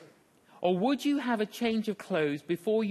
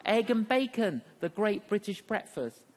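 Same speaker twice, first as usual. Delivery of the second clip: higher, thrilled reading of "Egg and bacon"; excited chicken; 4 semitones higher than usual. Acted. Chicken showing the pig the poster, higher and proud. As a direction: proudly read out "the great British breakfast" like a star. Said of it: "the chicken turns to the pig and says".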